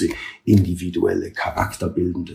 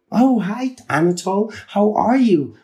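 high, breathy society lady voice; breathy hollywood starlet; 12 semitones higher than usual. Retold or imitated. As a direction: coo it like a starlet. Voicing lady caller on phone.

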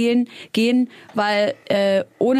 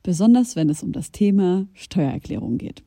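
ad read. Acted. Sponsored Taxfix ad read.

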